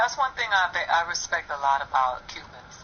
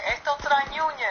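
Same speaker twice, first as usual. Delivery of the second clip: put-on old Cuban man; 8 semitones higher than usual. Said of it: "old Cuban man".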